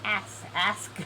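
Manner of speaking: "Ask, ask" with the K carefully sounded. Shown as a demonstration. Player making sure of the word, "ask" with a clear K. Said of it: "gotta make sure I pronounce that K".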